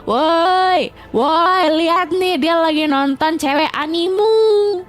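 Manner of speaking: mock tattling. Streamer calls out to a friend's chat, mock tattling. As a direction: play the gleeful snitch calling to everyone.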